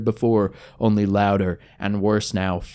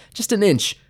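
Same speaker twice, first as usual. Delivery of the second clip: higher, straining reach; desperate strain; 10 semitones higher than usual. Acted. Gil reaching underwater for his sword, straining higher. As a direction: stretch for it, voice climbing.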